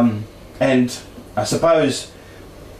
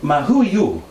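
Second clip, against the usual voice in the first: put-on Italian accent; 3 semitones higher than usual. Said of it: "said in her accent".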